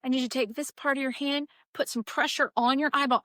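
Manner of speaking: imitated nurse keeping it together; faking composure. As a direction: instruct a patient as if all is under control. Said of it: "I'm really good at, like, faking it till I make it".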